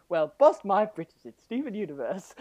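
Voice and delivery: hammed-up country surprise; folksy exclamation. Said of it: "who says".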